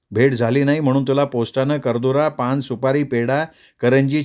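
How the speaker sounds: lightly voiced village sister, fond and teasing; a hint of a rustic sister's voice; sister's letter voice. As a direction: read it as the loving younger sister.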